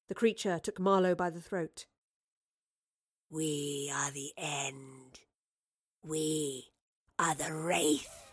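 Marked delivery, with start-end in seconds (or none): 3.3-6.7 low, slow, unvoiced wraith; menacing wraith whisper. Creature seizes Marlowe by throat. 7.2-8.2 low, slow wraith growl on "are the Wraith"; menacing wraith voice. Acted. Creature names itself.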